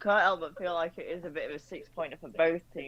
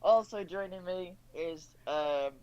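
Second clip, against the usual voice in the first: talking while eating; mouth full; 4 semitones higher, slower than usual. Real, not acted. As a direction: speak round a mouthful of food. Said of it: "trying to talk and eat".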